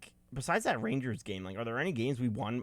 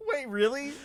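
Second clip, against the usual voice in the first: surprised; 13 semitones higher, 4 dB louder than usual. Real, not acted. Surprised at the field layout.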